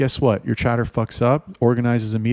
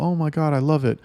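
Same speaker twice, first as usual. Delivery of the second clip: higher, gushing fake-excited recruit; mock eager girl; 6 semitones higher than usual. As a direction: parody an overeager girl promising everything.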